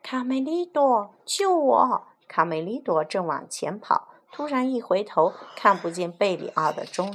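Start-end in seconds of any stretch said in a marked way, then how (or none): 0.0-2.1 higher, louder cry for help; clinging to a tree trunk, Berio cries to Camelido for help; shouting for help. Acted. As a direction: call out to a friend in panic. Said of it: "大喊".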